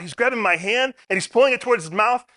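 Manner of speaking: high, loud panicked yell; retold nurse crying out for help; urgent retold yell from the struggle. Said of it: "one of the nurses yelled out".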